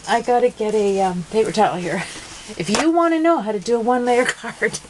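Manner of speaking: pushing words out through tears of laughter; crying with laughter. Real, not acted. Crafter explaining one layer card while laughing to tears. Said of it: "oh, I'm crying".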